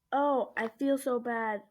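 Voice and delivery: slow, drawn-out mock sympathy; lightly acted sad "oh"; retold sad face. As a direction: imitate a friend feeling sorry, stretching it out. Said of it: "with a sad face".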